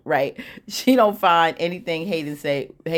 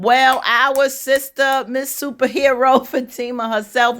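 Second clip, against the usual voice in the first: mock grand introduction; 7 semitones higher, 4 dB louder than usual. Storyteller introducing the superhero friend, mock-grand fanfare. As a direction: announce her playfully like a superhero, pitched up.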